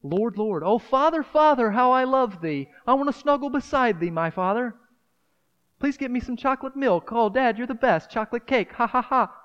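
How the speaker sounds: put-on high, whiny, spoiled-kid voice; hammed-up spoiled child begging Father for treats; spoiled child praying. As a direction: wheedle God like a greedy little kid. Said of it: "These spoiled, spoiled, wicked generation".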